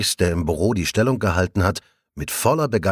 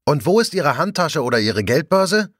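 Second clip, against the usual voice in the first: higher, stubborn question thrown after him; almost defiant; 7 semitones higher than usual. A narrator's reading. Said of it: "Es klingt beinahe trotzig". (beinahe trotzig hinterhergerufen)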